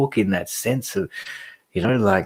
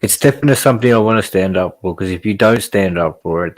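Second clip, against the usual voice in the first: fired up; 4 dB louder, faster than usual. Real, not acted. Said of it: "passionate about it".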